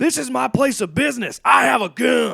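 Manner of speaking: frantic, freaking-out man, high rough-edged ranting. Recounting how a man ranted at two other men, retelling a man's rant. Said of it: "Alex began ranting at Clayton and his friend".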